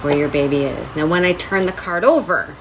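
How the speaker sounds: lightly imitated TV host reveal; Tyra Banks. Podcast host imagining the lawyer's big reveal, lightly hammed-up Tyra Banks. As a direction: draw out a mock dramatic card reveal. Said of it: "more like a Tyra Banks".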